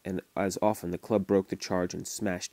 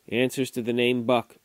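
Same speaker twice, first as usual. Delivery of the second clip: musing to himself; 3 semitones higher, 4 dB louder than usual. A narrator's reading. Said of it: "the man soliloquized".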